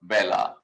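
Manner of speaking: বেলা with an open "ae" vowel, as in "bat"; correct Bengali pronunciation. Shown as a demonstration. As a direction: say বেলা as "bae-la", low and deliberate. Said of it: "শুদ্ধ উচ্চারণ কিন্তু হয় হচ্ছে".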